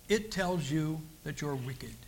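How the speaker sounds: slow unvoiced whisper; hushed slow confession. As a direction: breathe it like a secret. Preacher drops to a whisper.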